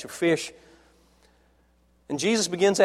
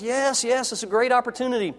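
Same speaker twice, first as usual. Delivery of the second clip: eager, higher and quick Timothy; excited; 6 semitones higher than usual. Retold or imitated. Young Timothy accepting Paul's invitation, eager and quick. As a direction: rush the yes like a thrilled young man. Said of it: "Timothy's excited and thrilled".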